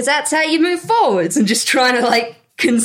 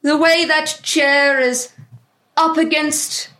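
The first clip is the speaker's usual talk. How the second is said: pretentious artist. Acted. The speaker speaks as character.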